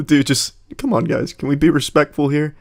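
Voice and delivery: lightly voiced, mildly pleading kid. Kid at show and tell asking for respect, lightly imitated. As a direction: plead for the room's respect like a child. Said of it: "like a kid at show and tell".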